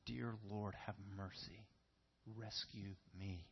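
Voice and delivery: slow, soft plea for mercy; heartfelt prayer. Pretend. Preacher voicing a sinner's prayer for mercy, slow and soft.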